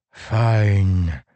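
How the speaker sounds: ordinary delivery, nothing marked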